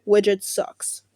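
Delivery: unvoiced whispered aside. Real, not acted. Whispering a dig about Widget to the audience. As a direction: breathe it out like a secret.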